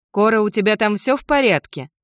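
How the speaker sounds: calling out. Acted. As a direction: check on someone through a door. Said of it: "позвала я". (встревоженный оклик)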